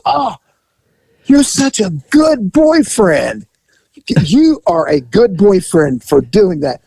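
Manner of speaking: high, slow broken-English voice; fond masseuse. Retold or imitated. Masseuse reminding client, high and slow. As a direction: play her remembering him fondly.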